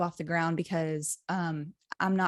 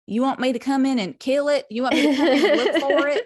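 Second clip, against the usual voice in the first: eager helpful guy; 6 semitones higher, 7 dB louder than usual. Retold or imitated. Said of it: "one of the guys was like".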